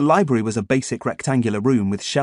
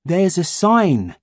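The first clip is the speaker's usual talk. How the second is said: put-on boy character voice; 7 semitones higher, 4 dB louder, much slower than usual. A narrator's reading. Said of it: "said Ian".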